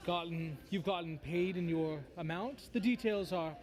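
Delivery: lightly voiced devil doing business; a hint of a haughty fiend; smug bone devil. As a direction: explain with mannered, theatrical patience. Game master voices bone devil.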